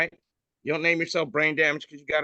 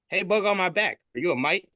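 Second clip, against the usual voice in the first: higher curious voice; fly voice; 7 semitones higher, 4 dB louder than usual. Retold or imitated. Fly asking the bug on its back, higher. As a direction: call over your shoulder to the bug. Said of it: "He says".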